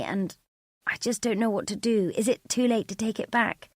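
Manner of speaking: words tumbling out in worry; panicked. Acted. Emily confessing to her sister on the phone, panicked.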